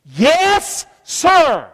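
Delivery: high, meek yes sir; submissive yes sir. Shown as a demonstration. Preacher shows the congregation how to answer God, meek and high. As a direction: answer like an obedient servant. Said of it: "say this".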